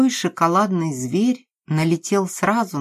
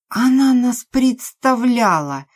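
higher, louder, slow indignant cry; outraged repeat; 8 semitones higher, 6 dB louder than usual. Acted. Drunk Maria throws Nastya's words back, slow and loud.

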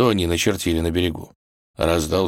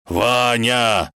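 raised, drawn-out howl of the name; wailing; 5 semitones higher, 3 dB louder than usual. Acted. Wolf runs to the edge for his friend, wailing. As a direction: cry out long and plaintively. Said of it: "волк тоже подбежал к краю и заголосил".

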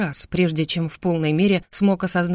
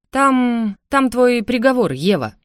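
a raised, tense rasp; leaning over Eva, rasping her sentence; 5 semitones higher, 4 dB louder, slower than usual. Acted. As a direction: rasp out the verdict, higher and louder. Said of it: "прохрипел я".

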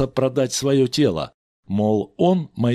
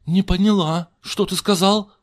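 Richie explaining; 10 semitones higher, 4 dB louder than usual. A narrator's reading. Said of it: "пояснил Ричи".

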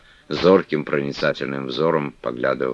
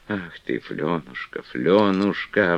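взволнованно; 3 semitones higher, slower than usual. Acted. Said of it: "взволнованным голосом".

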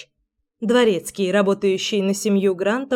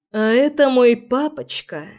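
cold sarcastic drawl; 3 semitones higher than usual. Acted. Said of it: "саркастично протянула я слишком ледяным голосом".

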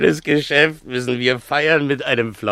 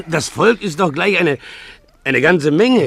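flustered protest; 8 semitones higher, 5 dB louder than usual. Acted. Donkey driver protests.

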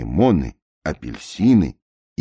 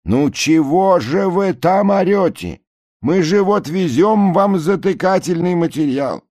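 high, loud calling; shouting through megaphone; 6 dB louder than usual. A narrator's reading. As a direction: call across the water. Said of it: "в рупор кричат". (крик в рупор)

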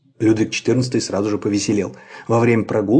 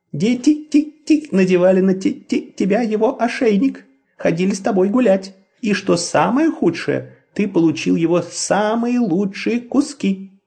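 put-on peeping baby chick; 8 semitones higher than usual. A narrator's reading. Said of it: "сказала она".

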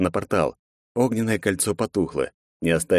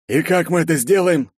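skeptical; 10 semitones higher, 4 dB louder than usual. A narrator's reading. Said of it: "скептически хмыкнул Уорд".

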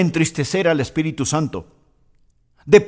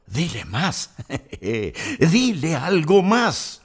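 softer, slow tempting devil voice; devil whispering; 4 dB quieter, much slower than usual. Retold or imitated. Preacher voices the devil urging an angry person on, hushed and slow. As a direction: coax slowly like a devil in the ear. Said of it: "el diablo sigue susurrando a su oído".

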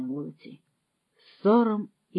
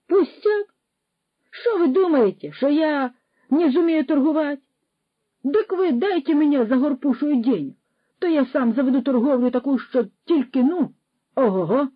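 raised, louder, offended boasting; indignant bragging; 7 semitones higher, 5 dB louder than usual. A narrator's reading. Roman insists to Suchok he can trade, indignant. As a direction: prove you can do it.

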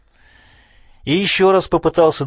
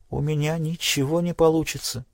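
softer, hopeless, barely audible; 3 semitones higher, 6 dB quieter than usual. Acted. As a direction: let it fade almost to nothing. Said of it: "едва слышно ответила она".

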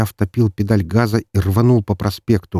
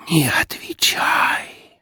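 eerie breathless whisper of many voices; a chorus of shadows whispering a warning; 9 semitones higher, much slower than usual. A narrator's reading. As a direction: hiss it from the shadows, slow and ghostly. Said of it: "вновь прошептало эхо множества голосов".

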